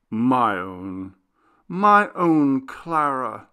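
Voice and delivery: slow, sighing and tender; sighing tenderly. Acted. Nathanael to Clara, slow and sighing. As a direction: breathe it out with a deep sigh. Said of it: "as he answered with a deep sigh".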